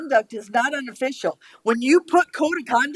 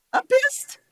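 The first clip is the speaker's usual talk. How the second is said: a hissed, breathy whisper, higher up; angry whisper; 13 semitones higher than usual. Real, not acted. Commissioner whispering her anger at a colleague. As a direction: spit it under your breath.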